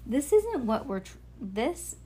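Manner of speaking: measured, clearly projected storybook reading; story read-aloud. A narrator's reading.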